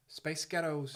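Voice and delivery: put-on American accent. Shown as a demonstration. Showing co-host the trick phrase, American accent. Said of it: "in an American accent".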